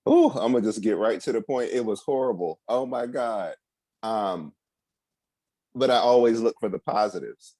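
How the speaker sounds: talking around new braces. Real, not acted. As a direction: speak like braces fill your mouth. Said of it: "I might be talking a little funny".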